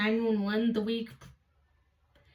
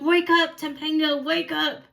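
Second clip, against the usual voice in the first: raised, insistent retold call; urgent wake-up call; 3 semitones higher than usual. Mother grabbing sleeping daughter's leg, urgent wake-up call. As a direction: imitate someone rousing a heavy sleeper.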